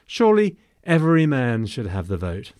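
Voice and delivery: "Surely every man should have the vote" with "man" leaned on a little; stress on man. Shown as a demonstration. Lecturer to listeners, lightly stressing man. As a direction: give "man" light extra weight in the quote. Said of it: "I stress the word man".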